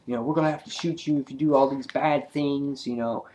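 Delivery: lightly voiced sixties cops; goofy cops. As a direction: play the cops as casual and jokey. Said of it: "the cops are like".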